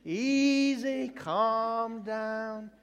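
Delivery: high, drawn-out whoa, as to a spooked horse; parody Moses. Acted. Moses calming an angry God, hammed-up soothing. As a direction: rein someone in with long, high vowels. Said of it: "it's like Moses go".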